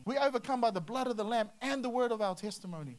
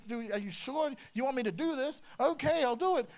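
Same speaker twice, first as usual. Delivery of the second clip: mock indignation; 3 semitones higher than usual. Philip to the eunuch about the puddle, mock indignation. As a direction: protest like an important preacher put upon.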